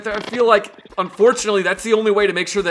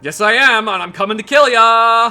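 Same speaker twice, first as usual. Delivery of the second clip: mock menacing threat; 5 semitones higher, 6 dB louder than usual. Mock threat to scared man.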